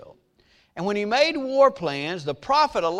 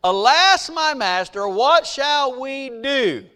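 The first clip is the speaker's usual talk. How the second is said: loud, drawn-out mock cry of alarm; preacher's raised, slowed imitation of fear; fearful cry; 4 semitones higher, 5 dB louder, slower than usual. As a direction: cry out like a frightened servant, hammed up. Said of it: "became afraid and cried out to Elijah".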